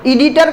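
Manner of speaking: एडिटर begun with an 'ee' sound; everyday 'ee-ditor' for एडिटर. Shown as a demonstration. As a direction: say एडिटर as ee-DEE-ter. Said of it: "एडिटर कहते हैं हम लोग".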